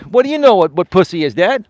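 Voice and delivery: high, loud indignant challenge; retold angry thought. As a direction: imitate silently fuming at dad. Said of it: "I was pissed".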